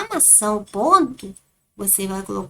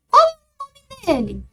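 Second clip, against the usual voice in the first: much higher, louder questioning voice; a curious person asking the dog's name, pitched up high; 13 semitones higher, 5 dB louder than usual. Shown as a demonstration. Teacher voicing the question in the story, much higher and louder. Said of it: "como está a entonação do texto".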